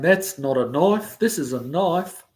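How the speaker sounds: slow, drawn-out Australian movie-quote voice; Australian accent. Acted. Picturing him saying a movie line, slow Australian accent. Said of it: "But that's Australian".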